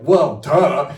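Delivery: high, loud, cocky well duh; mock smug duh. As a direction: play it like it was obvious all along. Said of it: "I didn't say it like that".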